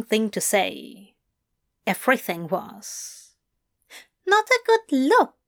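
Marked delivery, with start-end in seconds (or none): 4.3-5.4 higher with a rising disbelieving tune; incredulous echo. Acted. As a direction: throw his words back at him. Aziraphale echoing in disbelief.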